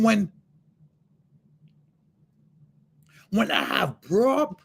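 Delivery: a God impatient with being bothered; God scolding. Retold or imitated. God scolding John for bothering him, mild mock rebuke. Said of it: "And he said".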